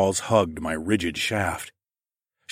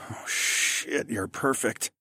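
breathy; 3 semitones higher, 7 dB quieter, slower than usual. Acted. Man overcome with pleasure.

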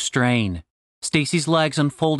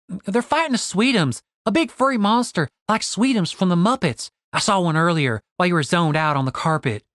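Stacy; 2 semitones higher than usual. Acted. Stacy correcting Julian about the monster, lightly voiced and insistent. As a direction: set him straight, pitch up then settling.

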